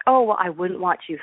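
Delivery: mildly mocking retold jibe; sarcastic. Husband calls back to wife as he leaves, mildly sarcastic. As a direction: imitate a husband's sarcastic retort.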